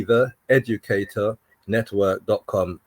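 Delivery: slow, measured web address. Shown as a demonstration. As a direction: space the address out for someone writing it. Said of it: "Slow down".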